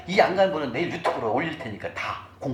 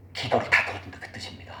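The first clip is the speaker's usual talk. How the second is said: whisper; 3 semitones lower than usual. Real, not acted. Whispered aside in sermon.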